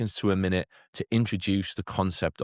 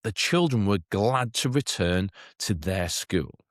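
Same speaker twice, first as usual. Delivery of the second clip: slow read-aloud; slower than usual. Shown as a demonstration. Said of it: "as we can see in the green sentence".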